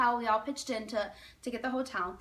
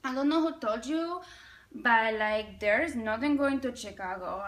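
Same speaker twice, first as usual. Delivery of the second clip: put-on Spanish accent. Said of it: "there's this Spanish lady there".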